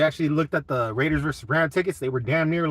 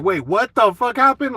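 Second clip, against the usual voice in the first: higher, louder imitation of a baffled player; confused player; 8 semitones higher, 6 dB louder than usual. Streamer imitating the player reacting on Twitter, baffled. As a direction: play the startled athlete on Twitter. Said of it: "jumped on Twitter and was like".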